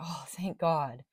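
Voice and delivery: acted, tearful, crying relief. Voicing the collective's feeling after their readings: acting out crying relief. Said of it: "crying relief".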